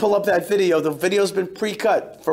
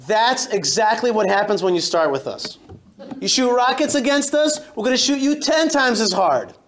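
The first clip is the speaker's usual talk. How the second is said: retold firm warning; 2 semitones higher than usual. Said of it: "I said".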